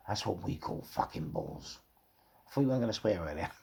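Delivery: ordinary delivery, nothing marked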